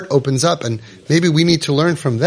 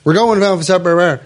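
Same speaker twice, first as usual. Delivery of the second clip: bossy announcement; 3 semitones higher, 3 dB louder than usual. Shown as a demonstration. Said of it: "instead of saying".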